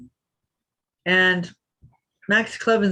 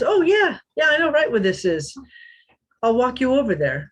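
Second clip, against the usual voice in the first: much higher, bright eager offer of help; mock-excited stranger saying he knows the place; retold stranger, keen to help; eager helpful stranger; 6 semitones higher than usual.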